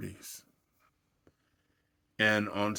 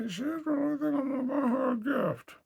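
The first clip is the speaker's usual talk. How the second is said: stifled laughter. Real, not acted. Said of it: "kinda chuckled to myself".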